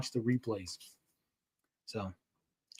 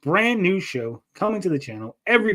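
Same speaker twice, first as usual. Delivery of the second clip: excited announcement; 3 semitones higher, 5 dB louder than usual. Real, not acted. Big show announcement.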